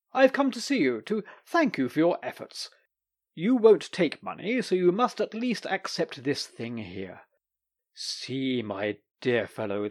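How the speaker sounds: lightly voiced doctor pressing a gift; a touch of coaxing enthusiasm; eager Doctor. The Doctor urging the lawyer to accept, eager.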